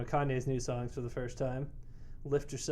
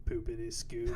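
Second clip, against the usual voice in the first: slasher killer; 4 semitones lower, 4 dB quieter than usual. Retold or imitated. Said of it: "Some serial killer walks up behind you like".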